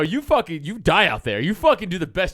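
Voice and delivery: loud fired-up coach yell. Retold or imitated. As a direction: bark it at a quitting player like a coach. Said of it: "I go".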